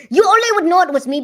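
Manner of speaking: loud put-on prank voice; prank-call voice. Shown as a demonstration. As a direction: protest loudly in the prank-call voice. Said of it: "heard me talking like this".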